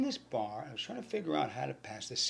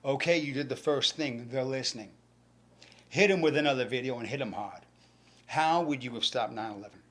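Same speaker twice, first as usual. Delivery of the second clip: father's voice; 6 dB louder than usual. Retold or imitated. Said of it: "my father's voice said".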